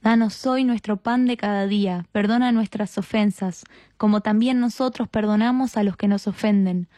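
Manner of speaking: level, measured prayer response; rosary response. Real, not acted. Answering the leader in the Our Father, recited prayer. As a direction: recite by heart in an even cadence, settling on the Amen.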